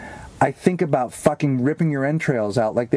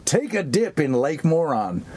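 mock sound cue; slower than usual. Shown as a demonstration. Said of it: "a sound cue of someone saying".

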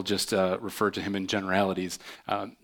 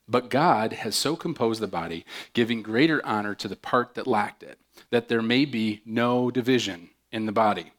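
measured, earnest Bible reading to the church; scripture reading. Acted. Reads scripture aloud.

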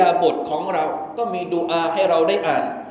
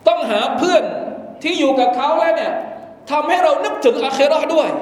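preaching at full force; 8 semitones higher than usual. Acted. Preacher warning the congregation about bad friends, fervent and higher. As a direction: drive the warning home to the congregation.

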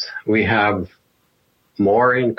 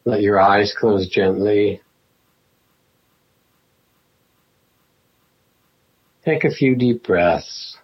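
guided meditation. Acted. Teacher settling the class into a sitting practice, guided meditation. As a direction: ease them gently into stillness, phrase by phrase.

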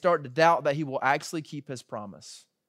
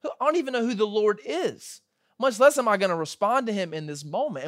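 higher, mock-incredulous dismissal; condescending Pharaoh; 4 semitones higher than usual. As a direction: look down on them from the throne. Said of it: "He's just condescending him".

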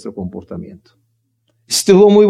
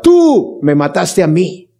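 drawn-out, slow mock yell of blame; a hint of Judas yelling, stretched out; slower than usual. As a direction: cry out the accusation slowly. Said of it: "Judas le grita".

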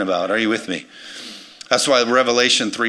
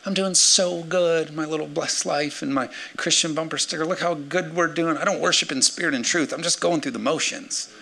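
smug blind Christian; 5 semitones higher than usual. Retold or imitated. Preacher mocking a complacent churchgoer in a smug high voice. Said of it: "You can't even see it".

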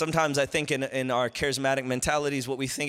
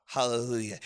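ordinary talk, nothing marked

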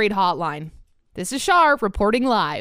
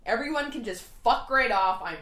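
muttered angry tirade. Acted. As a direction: mutter the curses under your breath.

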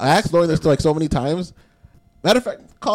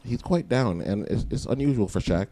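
news reporter voice; 3 semitones lower than usual. Acted. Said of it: "like, news reporter voice on".

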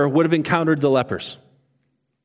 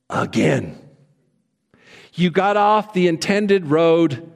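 lightly voiced condescending GPS; judgy GPS voice. Pastor imitating a judgy GPS, lightly condescending. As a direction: talk down like a smug machine. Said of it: "the voice may as well be saying".

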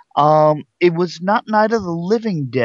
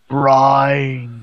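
British zombie moan; 2 semitones lower than usual. Retold or imitated. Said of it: "they are turned British and go".

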